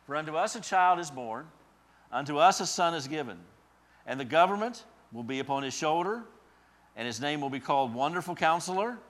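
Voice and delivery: building proclamation of Isaiah, rising to a peak on Mighty God; scripture reading. Real, not acted. Reads Isaiah aloud, building.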